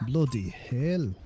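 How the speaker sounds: slow, imitated British exclamation; put-on British, stretched out; British accent. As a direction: copy it in drawn-out British. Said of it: "speak in a British accent".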